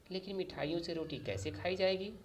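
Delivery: can't hold back her objection; exasperated protest. A narrator's reading. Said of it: "अम्मी किसी तरह सब्र न कर सकीं।".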